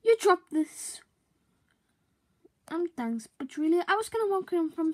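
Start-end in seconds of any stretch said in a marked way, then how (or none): 0.0-1.0 breathy whisper close in. Acted. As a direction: creep up and whisper it. Creepy close approach.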